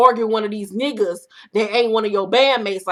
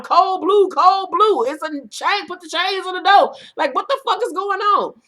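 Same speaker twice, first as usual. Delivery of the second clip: much higher, loud mock alarm; exaggerated group reaction; 7 semitones higher, 3 dB louder than usual. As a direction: play the whole room panicking in disbelief. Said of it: "And everybody like".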